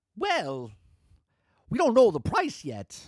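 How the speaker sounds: drawled, swinging up and down in pitch. Picturing a spokesperson answering an interview question: terrible Christopher Walken impression. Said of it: "It's a terrible Christopher Walken impression".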